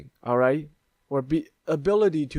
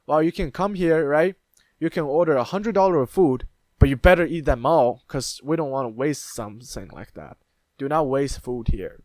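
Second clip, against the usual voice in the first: restaurant voice; 5 dB louder than usual. Retold or imitated. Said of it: "they're probably saying".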